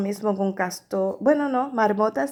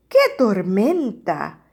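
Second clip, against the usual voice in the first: drawn-out exclamation; 3 dB louder, slower than usual. Acted. Bird exclaims about the storm.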